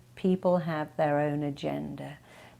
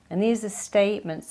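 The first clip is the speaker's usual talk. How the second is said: ordinary delivery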